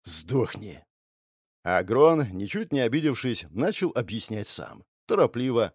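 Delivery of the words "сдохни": curt and nasty. A narrator's reading. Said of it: "ответил коротко и нехорошо".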